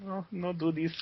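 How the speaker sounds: put-on high pleading in a Hispanic accent. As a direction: beg softly in a put-on Mexican accent. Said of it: "talk in that Hispanic voice forever".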